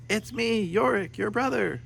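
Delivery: put-on high, small squeaky voice of a shrunken boy; tiny brother voice. A narrator's reading. Tiny boy calling up to his brother, high and squeaky. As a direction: speak like you're the size of a mole.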